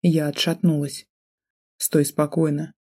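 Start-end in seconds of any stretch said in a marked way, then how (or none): 1.8-2.7 through gritted teeth. Acted. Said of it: "процедил он".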